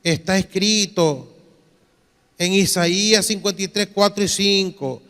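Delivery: lightly voiced protesting church member; imitated believer's confession. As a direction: recite scripture evenly, then stretch out the complaint. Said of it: "mire esta confesión".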